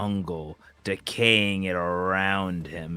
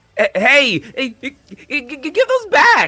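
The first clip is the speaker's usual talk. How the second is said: very high, loud, swooping shrill stammer; 11 dB louder than usual. Acting a character whose toys were taken away: voice jumping up an octave. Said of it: "his voice goes up an octave".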